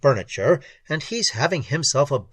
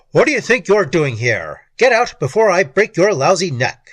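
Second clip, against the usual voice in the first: loud, high angry yell; 5 semitones higher, 8 dB louder than usual. A narrator's reading. Boss catches him snooping, angry yelling. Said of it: "I hear Big Pete Moscow yelling".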